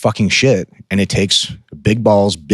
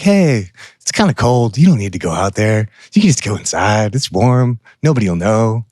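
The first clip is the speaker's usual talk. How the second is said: inner bitch voice. Retold or imitated. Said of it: "the bitch voice and the ego".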